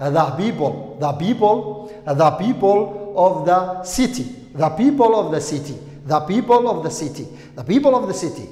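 "the" short "thuh" before "people", repeated for drill; model "the people". Shown as a demonstration. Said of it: "waxaad leedahay". ("the people" oo ku celcelin ah)

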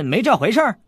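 mock-solemn challenge to the princess; mock serious. A narrator's reading. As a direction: pretend to be dead serious. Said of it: "韦小宝正色道".

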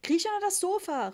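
loud, high-pitched order; mother calling out. A narrator's reading. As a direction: shout a frantic command. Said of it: "rief Mama". (laut rufende Mutter)

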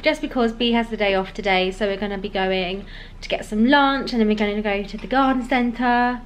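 talking around a retainer; wearing a retainer. Real, not acted. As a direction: speak with a retainer in. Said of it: "I've got my retainer in".

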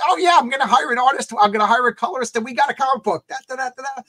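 high, loud mock eager voice; naive excitement. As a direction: play your past self as breezily naive. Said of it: "I thought it was just".

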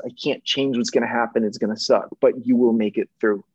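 a hint of tears while comforting his younger self; teary reassurance. Real, not acted. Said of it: "I'm getting teary-eyed just thinking about this".

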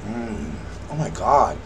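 chewing while talking; savoring a bite; mouth full. Real, not acted. Seen 0: Bit pastry at -4; still chewing, food in hand after.

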